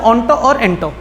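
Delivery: onto और into with 'toh' endings; maths-style pronunciation. Shown as a demonstration. Teacher gives the mathematics reading, onto और into both ending in 'toh'. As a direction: say onto और into as 'on-toh', 'in-toh'. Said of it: "mathematics में इसे बोलते हैं".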